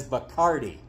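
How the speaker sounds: Bacardi with CAR stressed, the English way; anglicised pronunciation. A narrator's reading. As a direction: say "Bacardi" like the rest of the world. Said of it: "the rest of the world says".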